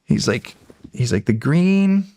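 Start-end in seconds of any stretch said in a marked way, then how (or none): 1.2-2.0 little demon voice. Retold or imitated. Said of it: "this cute little guy running around".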